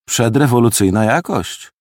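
appreciative. Acted. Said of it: "powiedziałem z uznaniem".

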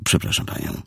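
soft, polite whisper; polite apology. Acted. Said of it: "powiedział grzecznie".

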